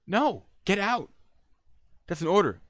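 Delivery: high, loud command; exasperated order. Retold or imitated. Agent orders stalling man out, exasperated.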